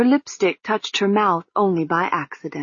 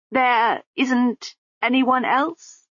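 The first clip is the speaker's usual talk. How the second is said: slow, higher, muffled woman; muffled lady's voice; 6 semitones higher, much slower than usual. Acted. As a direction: calmly urge her along, muffled. Lady Lejeune replies.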